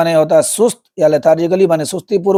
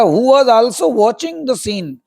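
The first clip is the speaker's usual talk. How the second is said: slow reading; 4 semitones higher, much slower than usual. Shown as a demonstration. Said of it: "reading story text aloud".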